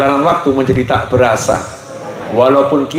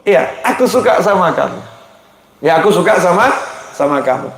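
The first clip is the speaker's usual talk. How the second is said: pleased grandfather; 6 semitones higher than usual. Retold or imitated. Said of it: "Kakeknya senang".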